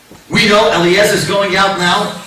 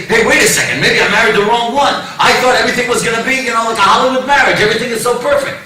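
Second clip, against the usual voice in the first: higher-pitched, hurried second thoughts; mild mock panic; 4 semitones higher, faster than usual. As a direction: act out a newlywed's rising alarm. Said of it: "people shouldn't panic".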